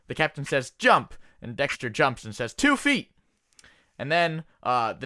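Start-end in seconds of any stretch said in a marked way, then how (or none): 0.7-1.1 captain order. Acted. 2.5-3.1 high silly voice. Acted. Dexter's silly answer.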